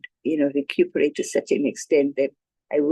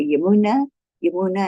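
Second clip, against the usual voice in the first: retold calling; 4 semitones higher, 3 dB louder than usual. Retold calling to sick woman.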